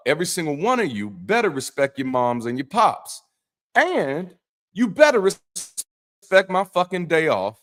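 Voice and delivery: God laying down the law, slowing for the warning; streetwise God. Acted. God warning the people about his day off, emphatic. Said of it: "imagine me talking to you".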